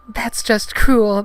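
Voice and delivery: high, loud, slow falsetto outrage; Padme, exclaiming. Acted. Heroine indignant for mocked friend, high slow falsetto exclamation. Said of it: "Padme exclaimed".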